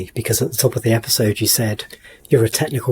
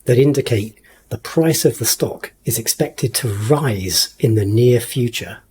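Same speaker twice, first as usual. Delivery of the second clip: magician voice; slower than usual. Acted. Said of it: "I'm saying all of this in my, like, magician voice".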